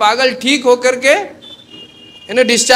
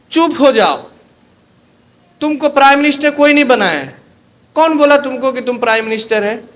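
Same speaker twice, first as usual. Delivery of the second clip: annoyed scolding; 5 semitones higher, faster than usual. Retold or imitated. Sleepless ward boy scolding the shouting patient, fast and irritated. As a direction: tell him off sharply.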